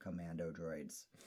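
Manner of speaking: very low, very hushed, flat monotone drone. Retelling how Simon delivers a line while Erica teases him: imitating Simon's monotone delivery. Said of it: "he does it really monotone".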